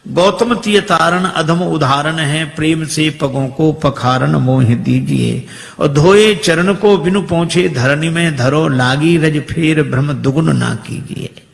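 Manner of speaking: declaimed verse, some lines slowed; kavitt recitation. Acted. Kevat answers Lord Ram in recited verse. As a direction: recite it as poetic verse with swing.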